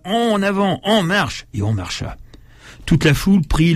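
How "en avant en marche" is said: retold cry. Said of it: "On cria".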